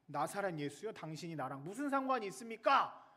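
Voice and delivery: lightly acted shout of the possessed man; imitated demon's cry. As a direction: cry out in protest, half-voiced. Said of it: "라고 소리를 지르며".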